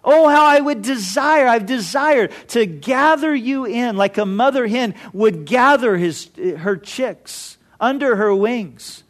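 a heartbroken cry over the city, easing to a mild ending; mild mock lament. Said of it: "Jesus cried out".

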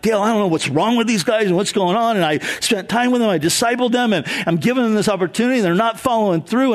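quick, mildly exasperated rush of words; frustrated venting. Retold or imitated. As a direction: vent to him fast, half-frustrated. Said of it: "I'm just all frustrated".

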